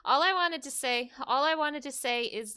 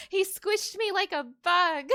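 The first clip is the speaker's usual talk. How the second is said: laughing it out, slightly higher; 7 semitones higher, 3 dB louder than usual. Real, not acted. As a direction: say it through a chuckle. Laughing at own defeat.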